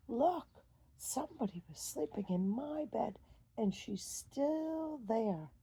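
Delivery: high little bear, slowing at the end; excited Baby Bear. Acted. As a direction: squeal then stretch out the last words. Baby Bear finds Goldilocks.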